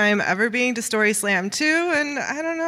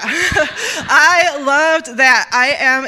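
laughing; 4 semitones higher, 6 dB louder, much slower than usual. Real, not acted. Laughing about employee discount.

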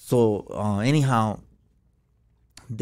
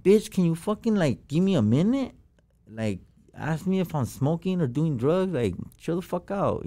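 higher, pushed retelling of snapping at the nurse; a retold angry outburst, higher in pitch; 5 semitones higher than usual. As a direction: fire it back at her, fed up. Snapping at nurse after diagnosis.

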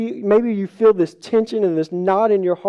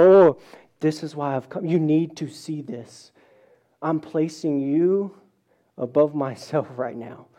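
gentle Jesus; 4 semitones lower than usual. Retold or imitated.

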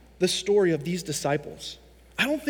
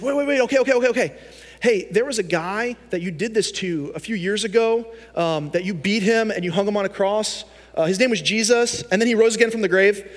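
mock pleading; 2 semitones higher than usual. Beaten Paul pleads, then preaches.

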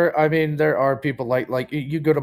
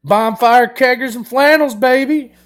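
hyped boast; 8 semitones higher, 6 dB louder than usual. Real, not acted. Proud Midwest boast.

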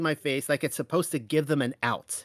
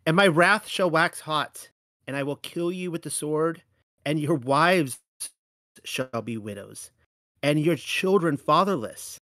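wrathful scripture. Acted. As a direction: let God's anger roll out. Thunders God's warning.

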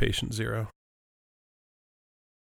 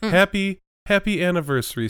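high squeaky voice; 8 semitones higher, 4 dB louder than usual. Pretend. Squeaky greeting.

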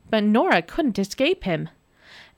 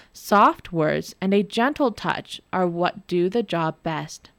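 gentle reminder. Acted. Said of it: "Jamie reminded her".

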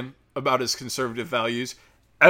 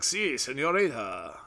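mock Spanish speaker; 4 dB quieter, slower than usual. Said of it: "had him speak Spanish".

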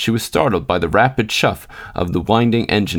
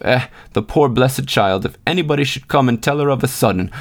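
retold thought; 4 semitones higher than usual. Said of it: "I thought to myself".

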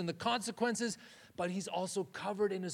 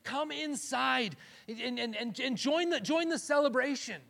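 pleading; 7 semitones higher, 4 dB louder than usual. Retold or imitated. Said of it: "the father begins pleading with him".

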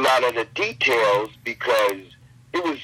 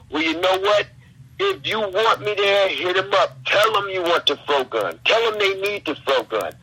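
wrestling promo; 6 semitones higher than usual. Pretend. Slips back into promo voice.

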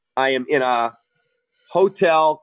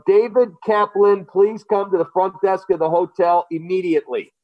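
hotel loudspeaker announcement; flat echoey pa page; 5 semitones higher than usual. Retold or imitated. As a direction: read it like a public-address page. Hotel paging him over speakers.

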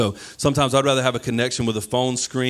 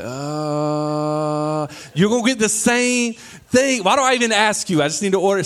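exasperated family member; 9 semitones higher than usual. Retold or imitated. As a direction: play the fed-up family member teasing the indecisive orderer. Family mocking at the drive-through.

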